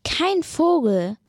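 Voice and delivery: bird voice. Acted. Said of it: "so sagt er".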